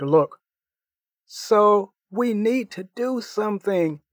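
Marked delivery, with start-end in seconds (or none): 1.3-4.0 higher, urgent plea; panicked teen begging his friends; excited pleading. Acted. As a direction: beg them to act now. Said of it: "pleaded in an excited voice".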